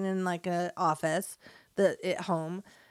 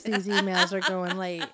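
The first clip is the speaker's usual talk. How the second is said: mild exasperation. Shown as a demonstration. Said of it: "That's how I say it".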